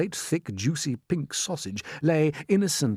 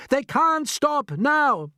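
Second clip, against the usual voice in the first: urgent insistence; 5 dB louder, much slower than usual. Acted. James insisting.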